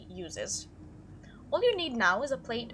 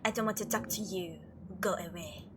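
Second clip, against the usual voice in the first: standoffish Frou Frou; 3 semitones lower than usual. Acted. Voices Frou Frou's dialogue.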